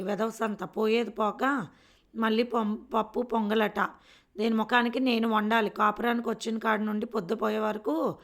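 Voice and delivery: grumbling curses. Acted. Anjamma cursing to herself while cooking the pongal. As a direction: spit out the complaints while cooking. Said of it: "తిట్టుకుంటూ వండుతుంది అంజమ్మ".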